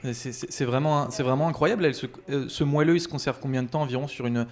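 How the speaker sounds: talking with a mouth full of madeleine; words muffled by a mouthful. Real, not acted. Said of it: "J'ai la bouche pleine, comme vous l'entendez".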